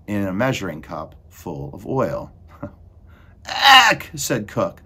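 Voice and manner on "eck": very high, loud squawk of disgust; startled shriek. A narrator's reading. Cook spots a mouse in the kitchen, shrieking. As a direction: shriek at the sight of vermin.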